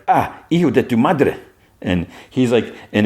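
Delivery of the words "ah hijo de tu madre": higher-pitched startled exclamation; surprised. Acted. Janet walking in on drunk Ben, surprised. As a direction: blurt it in Spanish, pitched up in surprise. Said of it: "she's, like, surprised".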